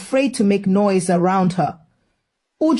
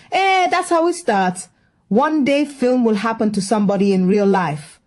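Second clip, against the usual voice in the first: bossy auntie voice. Acted. Auntie insists films come true.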